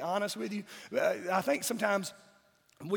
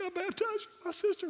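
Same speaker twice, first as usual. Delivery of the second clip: giddy mock kid voice; 11 semitones higher than usual. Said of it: "And I was like".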